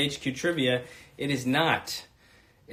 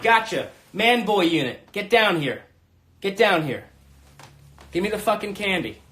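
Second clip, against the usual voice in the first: punchy, slightly raised mock police commands; mock cop bust; 2 semitones higher, 4 dB louder than usual. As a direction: bark orders like an arresting officer.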